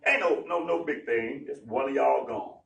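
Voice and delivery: breezy brush-off, pitched low; shrugging off the killing, low and quick; casual dismissal. Retold or imitated. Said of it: "it was not for him to say".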